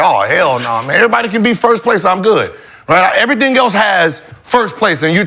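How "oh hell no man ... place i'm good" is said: offended scoff. Retold or imitated. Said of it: "So I was offended, like".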